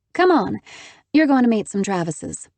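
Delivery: bright and high, urging; eager. Acted. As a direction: call them along cheerfully. Haven urging cheerfully.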